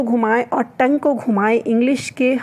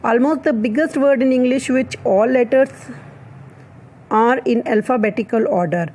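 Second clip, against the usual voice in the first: slow dictation; much slower than usual. Shown as a demonstration. Reads English fact slowly.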